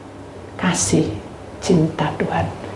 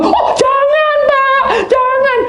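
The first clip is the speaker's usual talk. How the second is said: very high, slow drawn out protest; panicked laughing plea; 5 dB louder, slower than usual. Retold or imitated. Youth refusing to be called, very high and laughing. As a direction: cry out no in mock panic.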